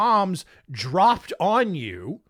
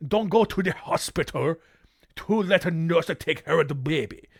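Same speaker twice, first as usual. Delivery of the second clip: mock Japanese accent. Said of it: "when I'm impersonating a Japanese person".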